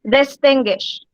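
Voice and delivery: teacher's careful stress demo of "distinguish", leaning on TIN; syllable stress. Shown as a demonstration. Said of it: "in which syllable did my voice rise".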